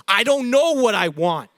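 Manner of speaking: a touch of mock irritation, snapping back; half-hearted snap at the question; understated hostile retort. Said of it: "I almost even sometimes get hostile".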